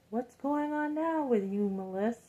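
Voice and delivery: put-on high, gentle voice of the older man; asking kindly like the praying man; older man's voice. Older man asking the speaker how she is. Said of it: "And he's like".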